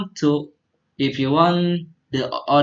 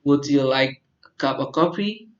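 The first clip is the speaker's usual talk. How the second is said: "coffee" lifted up at the end; teacher shows rising intonation on a polite offer; rising question tune. Shown as a demonstration. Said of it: "intonasinya sedikit diangkat ke atas".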